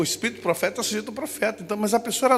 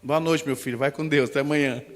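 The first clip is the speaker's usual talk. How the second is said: put-on old lady voice; 6 semitones lower than usual. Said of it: "Essas velhinhas que davam boa noite".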